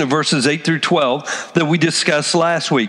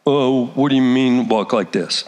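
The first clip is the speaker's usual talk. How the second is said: puzzled disciple; 7 semitones lower than usual. Retold or imitated. Confused disciple replies.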